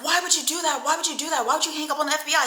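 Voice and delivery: high-pitched, repeated reproach; imitated dismayed protest. Woman questions man for hanging up, imitated dismay. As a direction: plead in disbelief, imitating her. Acted reproach after hang-up.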